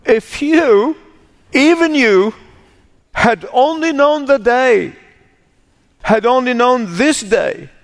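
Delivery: high, grieving cry of lament; sobbing lament. Acted. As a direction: voice it as Jesus weeping over the city. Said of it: "He sobbed over it and said".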